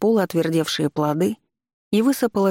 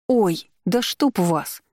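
крик; 3 semitones higher, much slower than usual. Acted. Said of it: "заорала".

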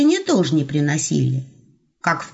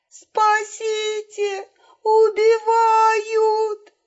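high, very slow, drawn-out wail; fake scream for rescue; much slower than usual. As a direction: shriek as if being murdered.

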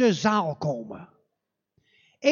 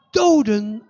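shocked echo; 7 dB louder than usual. Acted.

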